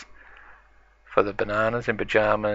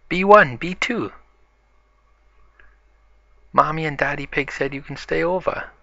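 high, loud call out of a window; 7 semitones higher, 3 dB louder than usual. Acted. Peppa calls friends out of the window, calling out. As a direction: shout up and out to friends, easing off. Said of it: "shouts out of the window".

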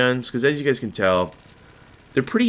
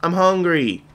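mock eager voice; 7 semitones higher than usual. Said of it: "You're like".

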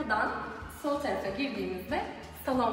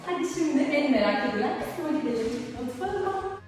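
excited; 4 semitones higher, 4 dB louder than usual. Real, not acted. Announcing the kitchen reveal.

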